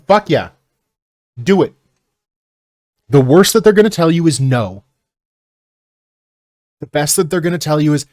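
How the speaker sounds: loud, high push of hype; fired-up encouragement. Real, not acted. Streamer loudly urging a viewer to go for it, hyped. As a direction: pump the viewer up, loud and emphatic.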